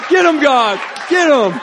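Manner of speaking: high-pitched, full-voiced shouted prayer; yelling. Preacher yelling out prayers over the room, shouting. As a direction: yell it up to God, urging him on. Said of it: "I'm yelling out all sorts of stuff".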